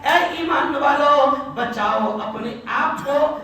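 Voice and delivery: loving address. Acted. Preacher voices God calling the believers, slow and loving. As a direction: plead slowly and affectionately. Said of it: "اللہ بڑے پیار سے کہتا ہے".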